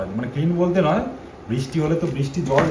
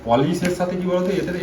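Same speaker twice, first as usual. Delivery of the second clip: speaking up; 5 semitones higher than usual. Real, not acted. Husband explaining car polish after wife asks, speaking up. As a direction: raise your voice a little on request. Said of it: "একটু জোরে বলো".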